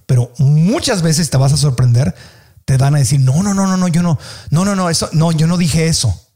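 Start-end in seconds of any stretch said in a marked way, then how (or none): 3.2-6.3 acted rush of denials; quick protest. Misunderstood person correcting the listener, mild protest. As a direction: deny it in a mild hurried protest.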